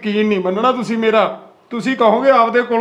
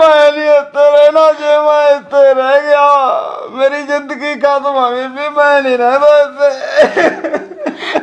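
tearful and raised at first, then a slow sobbing refusal; crying protest. Acted. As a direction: sob out that you won't stay here. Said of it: "ਰੋਣਾ ਕਿਉਂ ਐ".

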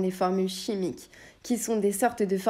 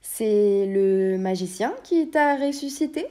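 surprised; 5 dB louder, slower than usual. Acted. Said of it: "s'étonna le chevalier".

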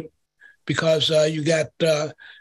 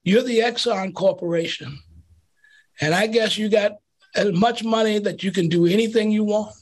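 nice Southern voice; 2 semitones higher than usual. Retold or imitated. Old lady at the meeting tells Exxon off, hint of Southern voice. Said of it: "nice Southern voice".

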